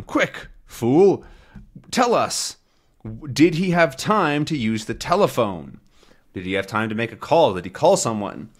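a lightly played thug demanding answers; a hint of a rough crook; gruff gangster. Voicing the gangster.

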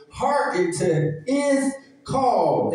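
slow, deliberate preaching of the phrase; hearken, slowly and weighty; drawn-out hearken. Shown as a demonstration. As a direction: stretch each word out. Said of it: "listen to his voice".

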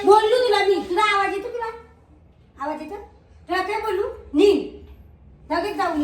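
loud, high scolding; yelling at husband on his birthday; angry yelling. Real, not acted. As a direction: shout him down, raising pitch.

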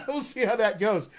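chuckling through the words; laughing. Real, not acted. Coach laughs at a viewer's accent-swap dare, laughing. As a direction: laugh it off while speaking. Joking about swapping accents.

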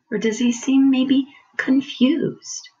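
whispering. Real, not acted. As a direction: whisper it to draw them in. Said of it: "whispered question to children".

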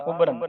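ਉਬਰਨ as a light "ubran"; short, even vowels in ਉਬਰਨ; correct pronunciation. Shown as a demonstration. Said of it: "ਇਹਨੂੰ ਉਬਰਨ ਨਹੀਂ ਪੜ੍ਹਨਾ".

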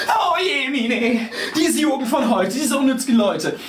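put-on high, loud lamenting old woman; grandma wailing at the child, high and loud. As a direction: wail over the youth of today like a granny. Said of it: "und jammert".

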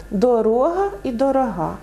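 «дорога» then «дорога», stress shifting from the second to the last syllable; first «дорога» stressed on -ро-, second on the final -га; stress contrast. Shown as a demonstration. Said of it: "слово з іншим наголосом". («дорога» і «дорога» з різним наголосом)

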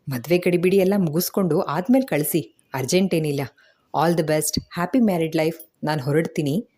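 brisk, chatty beautician talk in a hurry; rattling chatter. Acted. Beautician lectures the bride then dashes off, rattling quickly. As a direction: rattle off advice and leave in a hurry. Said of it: "ಪಟಪಟನೆ ಹೇಳಿ ಮುಗ್ಸಿ".

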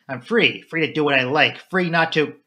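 joyful cry of freedom; exultant. Acted. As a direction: ring out each free. Flora exults in her freedom.

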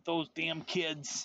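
slow, drawn-out pretend grumbling; mock old-timer grumble. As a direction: play-act a crotchety complaint, dragging the words.

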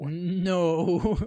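a mimicked curt, final "No."; flat firm no. Echoing the lifeguard's curt refusal to Eddie. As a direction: shut it down with one word. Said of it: "Así de no".

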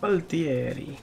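Valtieri with a hammed-up Italian accent and a rising end; cheesy Italian accent. Shown as a demonstration. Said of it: "cheesy Italian accent".

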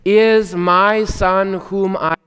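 slow, solemn divine proclamation; voice from heaven. Retold or imitated. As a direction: announce it slowly like God from heaven. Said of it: "a voice from heaven said".

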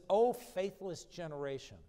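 a little perturbed. Acted. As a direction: rebuke them with a touch of exasperation. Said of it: "probably a little perturbed about it".

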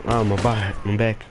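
pained groan, back cramping; strained, hurting back. Real, not acted. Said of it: "I'm cramping".

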